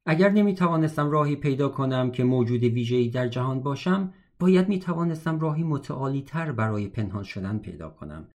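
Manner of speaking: measured literary audiobook reading; story narration. A narrator's reading. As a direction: read the memoir aloud with careful diction.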